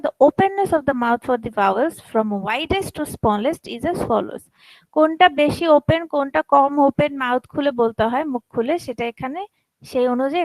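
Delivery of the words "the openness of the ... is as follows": slow reading aloud. Shown as a demonstration. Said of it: "এখানে খুব সুন্দর করে লেখা আছে".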